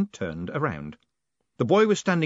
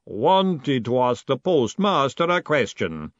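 heavy, very slow, deliberate creature voice; slow golem; 2 semitones higher, 4 dB louder, much slower than usual. A narrator's reading. Golem explaining its raised fist to Stanley, slowly. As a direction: space every word out ponderously. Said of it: "said the golem slowly".

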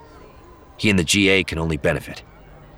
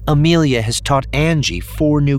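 slow, high, grave announcement; measured, solemn delivery, pitched up; great seriousness; 9 semitones higher, 4 dB louder than usual. A narrator's reading. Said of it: "With great seriousness".

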